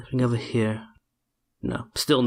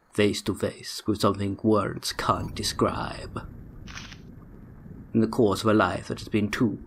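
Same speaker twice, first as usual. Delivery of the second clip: a lightly voiced sinister tempter, sinking to a whisper; copying the villain's voice. Streamer reads the villain's letter in a lightly put-on villain voice. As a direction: play the smooth villain reading his letter, only half in character. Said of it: "I don't know what this voice is either".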